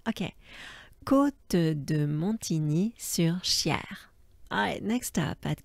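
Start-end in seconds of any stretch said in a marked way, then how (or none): 1.0-4.1 Côte de Montigny-sur-Cher whispered slowly; calm slow repeat; slow whispered place name; steady repeat. Shown as a demonstration. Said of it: "encore une fois".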